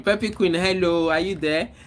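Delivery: calling out. Real, not acted. Calling out to a silent viewer.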